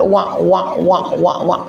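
imitated noise. Imitating a noise in his story.

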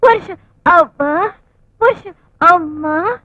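coy squeal. Acted. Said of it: "పురుష్, పురుష్ అని చెక్కల".

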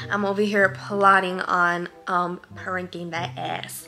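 talking around a mint; mouth full. Real, not acted. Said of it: "I got a mint in my mouth".

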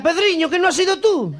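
high, loud laughing retort; wife calling out to husband, laughing and loud; laughing shout. Acted. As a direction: shout it back through a laugh. Wife answers husband in tunnel.

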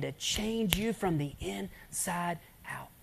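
slow hushed sermon whisper; intimate whisper preaching. Acted. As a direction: draw the listeners in with a whisper.

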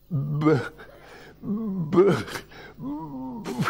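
stammering on the first sound, fading; stuttering. Retold or imitated. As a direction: get stuck on the b, trailing off. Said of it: "I paused before the deadly word".

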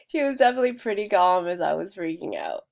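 laughing. Real, not acted. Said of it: "I'm laughing now".

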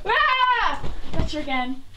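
a sudden high, loud yelp of surprise; gleeful shout. Real, not acted. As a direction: pounce with a loud cry. Pillow fight ambush.

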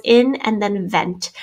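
"in" and "vent" stretched as two teaching chunks; syllable by syllable. Shown as a demonstration. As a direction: slowly split "in" and "vent" apart. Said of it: "If we do it by syllables".

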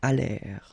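"allèrent" as alèr, ENT left silent; silent ENT ending. Shown as a demonstration. Teacher showing the plural ending, silent ENT. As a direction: say "allèrent" with the r as last sound. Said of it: "you don't pronounce it".

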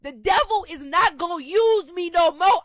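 real anger, punched out hard; angry defiance. Real, not acted. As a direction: declare it mad and unyielding. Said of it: "I'm angry 'cause I'm mad".

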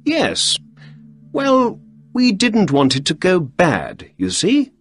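smooth it over with a lifted, eager tone; Holmes voice. Acted. Holmes reassuring the visitor.

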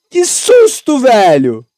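loud, still rattled exclaim; shaken after a scare. Real, not acted. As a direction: catch your breath after the fright. (ainda assustado depois do susto)

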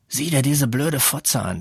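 scornful classroom hiss; hissed insult. A narrator's reading. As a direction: spit it out at her under his breath. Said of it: "zischte er".

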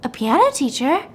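questioning rise on TEACHER; acted pleasant surprise; surprised echo. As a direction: repeat it as an astonished question. She echoes his answer in surprise.

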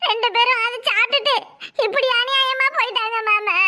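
wailing complaint breaking into sobs; tearful wail. Acted. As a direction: cry it out, stretching the last word. Wailing over the deaths.

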